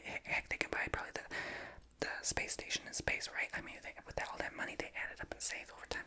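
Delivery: hushed ASMR-style whispering. Acted. Former homework bully defending herself in a whisper. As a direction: whisper it all, chatty and confiding.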